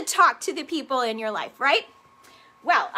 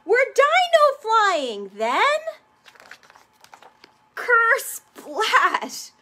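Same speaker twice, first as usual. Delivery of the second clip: excited splash; 6 semitones higher, 4 dB louder, much slower than usual. A narrator's reading. Reading dinosaur story aloud, splash.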